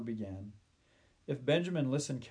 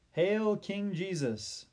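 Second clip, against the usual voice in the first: high, slow, drawn-out hail; acclaiming call; 7 semitones higher, 3 dB louder, slower than usual. A narrator's reading. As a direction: call out in homage to a king. Old man hails the arriving king.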